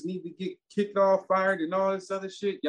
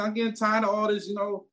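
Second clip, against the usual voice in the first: retold fed-up rant; 6 semitones higher than usual. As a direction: vent like you've had enough. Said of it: "That's how fucking mad I was".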